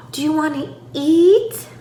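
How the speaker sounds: high animated question landing on "eat"; stress on EAT. Shown as a demonstration. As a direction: punch "eat" for the baby. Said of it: "I'm gonna stress those words".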